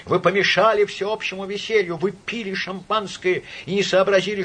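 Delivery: high, relentless shouted tirade; raging drunken denunciation; unrestrained fury. A narrator's reading. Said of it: "продолжал кричать с неудержимой яростью".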